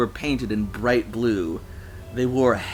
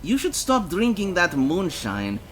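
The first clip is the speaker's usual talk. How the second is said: higher-pitched stern telling-off; ferocious scolding; 6 semitones higher than usual. A narrator's reading. Lisa warning the drunks off fighting, ferocious scolding. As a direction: scold them with force. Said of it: "She looked ferocious".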